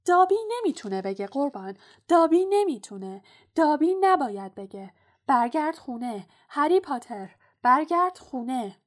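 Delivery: high, loud elf squeal; urgent high-pitched house-elf; squeaking. A narrator's reading. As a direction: squeak out a frantic refusal. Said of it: "جن خانگی جیر جیر کنان گفت".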